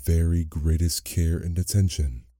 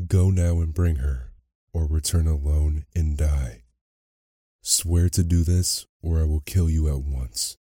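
stern beast. Acted. Beast sets his terms.

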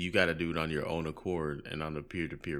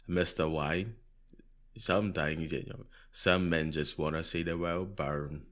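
bad British accent. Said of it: "That was a terrible accent".

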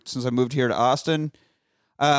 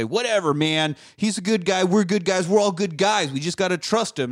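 quoting Cap; 6 semitones higher than usual. Retold or imitated. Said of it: "Cap's trying to say".

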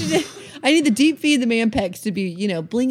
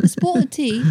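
higher, hushed British attempt; mock British accent; 4 semitones higher than usual. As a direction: try British under your breath. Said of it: "do it in a British accent".

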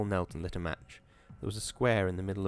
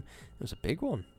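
softer, quiet and even; said softly; 5 semitones higher, 7 dB quieter than usual. A narrator's reading. Hall speaks to the shaken Wisconski, soft and quiet. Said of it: "Hall said softly".

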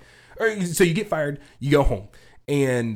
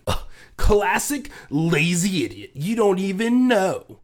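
mocking quote; 4 semitones higher, slower than usual. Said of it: "He's like".

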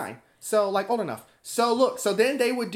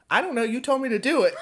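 put-on giggling girl; 6 semitones higher, 3 dB louder, faster than usual. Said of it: "she'd be like".

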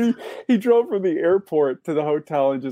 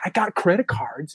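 higher-pitched mock rock star protest; lightly mimicked star's complaint; a rock singer; 4 semitones higher, 3 dB quieter than usual. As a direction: imitate an exasperated rocker pleading his case. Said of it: "he's doing the singer thing".

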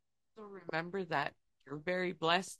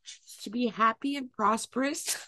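crying; 6 dB louder than usual. Acted. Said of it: "Why are you crying?".

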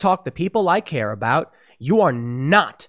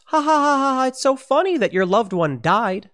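mocking laughter; 9 semitones higher than usual. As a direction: ham up a cruel newspaper laughing at grief. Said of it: "And the, the L A Times laughs".

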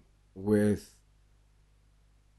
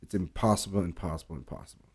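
each repeat softer until it fades; fading repetition; 3 semitones lower, 9 dB quieter than usual. Real, not acted. Insisting caring can't be taught, fading softer. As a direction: let the word die away. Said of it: "repeating for emphasis".

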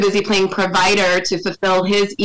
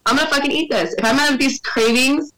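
defiant; 3 semitones higher than usual. Retold or imitated. Pregnant woman telling others to leave her alone, acted indignation. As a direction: push back, stretching out the exasperated words.

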